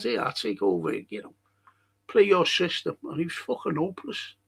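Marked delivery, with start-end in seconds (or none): 0.0-3.0 a hint of a gruff manager stepping in; lightly voiced Klopp. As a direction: drop the voice a touch to play the boss. Imitates Klopp taking over.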